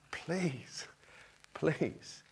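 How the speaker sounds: whispered, pleading please. Shown as a demonstration. Preacher pleading with the congregation in a whisper. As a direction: beg softly in a whisper. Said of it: "different tone".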